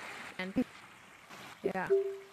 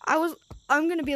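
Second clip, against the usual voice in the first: near tears; 3 semitones higher, 3 dB louder, faster than usual. Real, not acted. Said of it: "I'm, like, crying right now".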